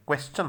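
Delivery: क्वेश्चन said "kwes-chan"; "ch" sound. Shown as a demonstration. Teacher gives a similar word, क्वेश्चन with "ch" in the ending. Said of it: "इसमें भी चेकी sound होते हैं".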